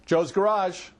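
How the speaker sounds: curt business phone answer; short greeting. Shown as a demonstration. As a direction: answer with just the shop name, then stop. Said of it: "A short greeting is something like".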